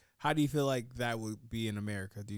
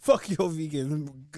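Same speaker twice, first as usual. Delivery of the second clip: loud, drawn-out comic insult; hammed-up contempt, raised voice; mock rude server; 4 semitones higher, 7 dB louder, slower than usual. Acted rude server insulting a diner.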